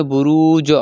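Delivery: বুরুজ cut short with a rising জ bounce; the wrong way: বুরুজ bounced up; wrong qalqala. Shown as a demonstration. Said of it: "এরকম পড়া যাবে না".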